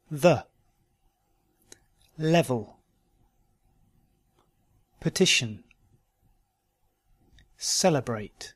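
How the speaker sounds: weak E reduced to "uh", as in "Level"; unstressed E in "Given" as a short schwa. Shown as a demonstration. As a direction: model each word singly, "The" said "thuh". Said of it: "words where the schwa, uh, is spelt with an E".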